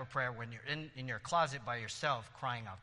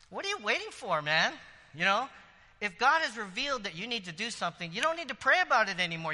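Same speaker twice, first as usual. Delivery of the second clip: exhorting push; 6 semitones higher, 6 dB louder than usual. Real, not acted. Preacher exhorts loudly.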